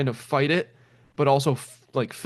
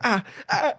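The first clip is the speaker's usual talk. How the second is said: pained groans; 9 semitones higher than usual. Retold or imitated. Burning pain in the car.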